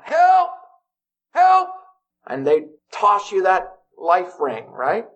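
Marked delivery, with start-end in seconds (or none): 0.0-1.7 short, high pretend cry for help; yelling for help. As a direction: call out as if stranded in the water. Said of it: "you start yelling out".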